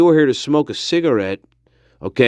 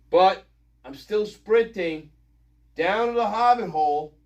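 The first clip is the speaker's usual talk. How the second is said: calling from off-mic; 4 semitones higher, 6 dB quieter than usual. Real, not acted. Calling back while heading outside.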